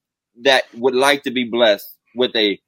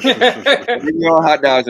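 slow emphatic repeat; 3 semitones higher, much slower than usual. Shown as a demonstration. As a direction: Bring your own hot dogs said very slowly. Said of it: "I said B Y O H D".

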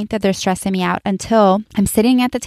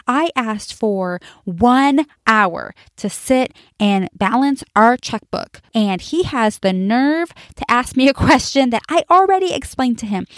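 boiling inside; 4 semitones higher than usual. Retold or imitated. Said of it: "I am just boiling".

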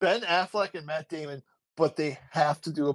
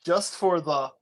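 drawn-out booming announcer call; sportscaster impression; 5 semitones higher, 4 dB louder, slower than usual. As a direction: hype it up like a hockey broadcaster.

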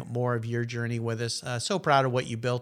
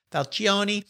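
Italian accent; 5 semitones higher than usual. Shown as a demonstration. Host tells listeners the guest's surname, in a mock Italian accent. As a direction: say "Falcione" as fahl-CHO-neh, in a hammed-up Italian accent. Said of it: "I'm doing that in my best Italian accent".

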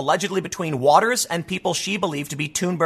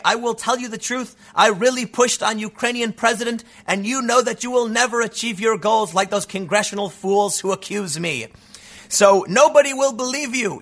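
mock father; 4 semitones higher than usual. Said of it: "Her supposed father chimes in".

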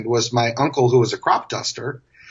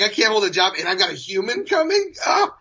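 higher, lightly hammed-up whine; mock crying; 5 semitones higher than usual.

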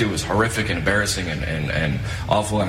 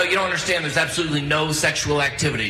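higher, complaining protest; whiny self-quote; 7 semitones higher than usual. Retold or imitated. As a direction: plead like a miserable rehab patient. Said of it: "I go".

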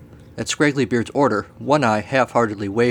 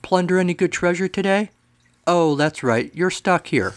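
mocking serpent; 7 semitones higher than usual. Serpent taunting.

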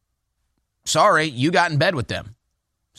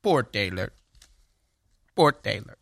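mock pity; 6 semitones lower, 4 dB quieter than usual.

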